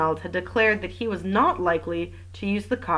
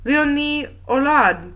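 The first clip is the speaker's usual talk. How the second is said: loud, drawn-out summons; raised voice summoning someone by name; calling out; 8 semitones higher, 5 dB louder, slower than usual. A narrator's reading. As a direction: call the witness in, high and slow. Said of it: "called the magistrate".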